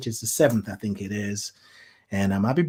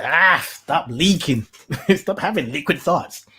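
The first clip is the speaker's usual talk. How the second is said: laughing mock scold; 5 semitones higher, 5 dB louder than usual. Mock scolding own tears.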